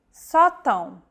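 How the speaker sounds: sótão stressed on the open first o, SAW-town; acute stress with nasal ending. Shown as a demonstration. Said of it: "The stressed vowel is marked by an acute".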